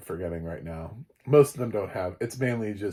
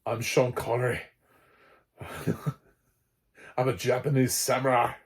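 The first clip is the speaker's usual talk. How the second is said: light mock Scottish accent of Sean Connery; playful, loose Scottish accent impression; 3 semitones higher than usual. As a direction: lightly imitate his Scottish accent as a samurai. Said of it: "going in with his Scottish accent".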